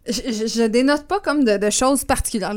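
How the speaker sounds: echoey and muffled from inside a glass; talking into a glass. Real, not acted. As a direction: speak right into the rim of a glass. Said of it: "je parle dans le verre, ça fait écho".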